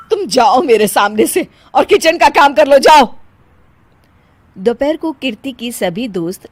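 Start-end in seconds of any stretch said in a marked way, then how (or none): 0.1-3.1 angry dismissal. Acted. Mother-in-law orders her to kitchen.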